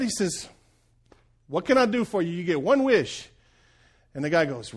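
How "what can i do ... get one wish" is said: genie voiced higher and louder; a freed genie stretching, pleased; relieved genie. Preacher voices the genie in his joke, higher and louder.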